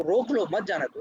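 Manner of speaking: high "रोक लो", falling finish on "मत जाने दो"; pause after रोक लो. Shown as a demonstration. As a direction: break after "रोक लो", keep "मत जाने दो" together. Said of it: "तो मतलब है कि".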